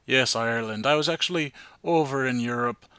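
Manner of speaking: a light, playful put-on German accent; mock German accent. Host greeting listeners from Europe in a light mock German accent. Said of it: "I'm gonna stop talking with an accent".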